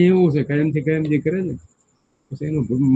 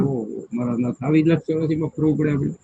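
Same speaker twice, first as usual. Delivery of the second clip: lamenting sigh; 4 dB quieter than usual. Pretend. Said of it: "એમ થવું જોઈએ કે".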